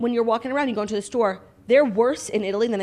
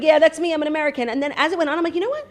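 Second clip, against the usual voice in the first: higher, hammed-up patriotic voice; mock proud American; 7 semitones higher than usual. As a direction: play a puffed-up proud American for laughs. Mocking herself as proud American.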